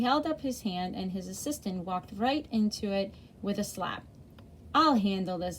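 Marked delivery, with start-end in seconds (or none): 4.7-5.6 loud booming command; boomed. Acted. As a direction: boom it out like a big bossy man. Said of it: "the man with the mustache boomed".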